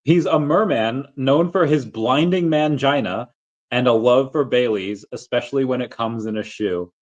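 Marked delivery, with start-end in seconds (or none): 0.0-3.3 deliberate slow reread, higher; careful second reading; slower careful reread. Shown as a demonstration. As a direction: read it slowly and carefully, savoring it. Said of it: "let me try to read that again".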